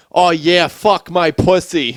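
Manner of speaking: high, loud hammed-up moans; mock moaning. Joking about a Boston chick, mock moaning.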